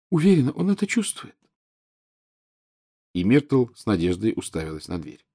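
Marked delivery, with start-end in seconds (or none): 0.1-1.4 high, reproachful schoolgirl ghost; whiny ghost girl. A narrator's reading. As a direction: sulk like a neglected ghost girl. Narrator voices Myrtle.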